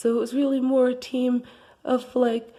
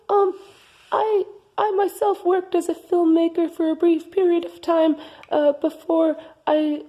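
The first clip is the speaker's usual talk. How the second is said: higher interviewer voice; 4 semitones higher than usual. Acted. Co-host interviews in raised voice.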